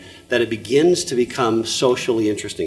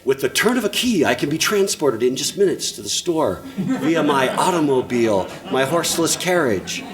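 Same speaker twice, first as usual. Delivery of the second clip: lightly mock an antique announcer; mock old-fashioned phrasing. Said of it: "How many of you say".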